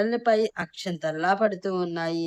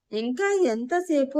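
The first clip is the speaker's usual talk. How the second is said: mild, slower quote of an impatient question; slightly raised retelling; 5 semitones higher than usual. Retold or imitated. Husband defending his earlier shout to wife, mildly raised retelling. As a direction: repeat it defensively, drawn out and a little higher. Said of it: "కొంచెం గట్టిగా అడిగాను".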